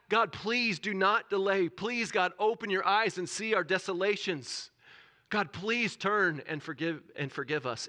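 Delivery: loud, high, drawn-out plea; pleading. Acted. Preacher voicing Daniel imploring God, urgent pleading. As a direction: implore God, leaning slowly on each request. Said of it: "He is pleading with God".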